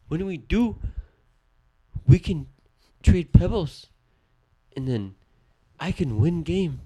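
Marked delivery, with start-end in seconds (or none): 0.1-3.9 Squid Game grandpa voice. Retold or imitated. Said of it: "Asian grandpa voice". 5.8-6.8 Squid Game grandpa voice. Retold or imitated. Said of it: "Asian grandpa voice".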